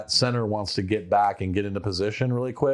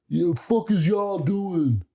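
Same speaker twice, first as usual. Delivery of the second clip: mock yell, much higher, slow and drawn out; imitated frustrated yell; 10 semitones higher, slower than usual. Host imitating Geno yelling at his teammates, mock yell. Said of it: "and then he's like".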